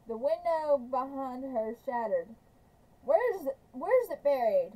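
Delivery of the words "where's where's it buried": angry demand. Acted. Trout after firing the rifle, demanding loudly where it's buried. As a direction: bark the question at her. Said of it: "he demanded".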